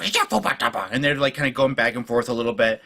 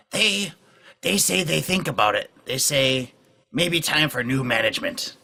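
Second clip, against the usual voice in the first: nervous goblin interpreter; 3 semitones higher, slower than usual. Acted. Shaky passing on the goblins' answer, mildly nervous. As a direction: relay it haltingly in broken speech. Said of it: "Shaky kind of nervously conveys this to them".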